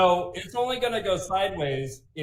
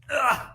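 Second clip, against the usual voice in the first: pained yelp; 11 semitones higher, 3 dB louder than usual. Real, not acted. Pained cry getting tattoo shown.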